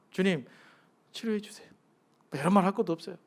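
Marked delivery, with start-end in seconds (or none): 0.1-1.7 plain honest plea. Shown as a demonstration. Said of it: "어떻게 기도하면 돼요?".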